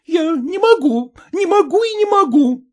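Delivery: high, loud, breaking into despair; wife accusing her husband of lying; jealous fury. A narrator's reading. Wife's jealous quarrel continues. (ревнивый надрыв)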